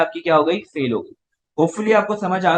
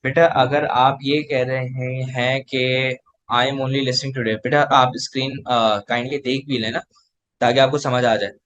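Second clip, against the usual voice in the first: gentle admonishing aside; 6 semitones lower, slower than usual. Real, not acted. Teacher addressing a listening-only student.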